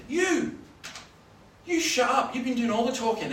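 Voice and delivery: loud, high retort, imitated; confrontational heckler. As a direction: shut someone down at full voice. Acts out heckler silencing him.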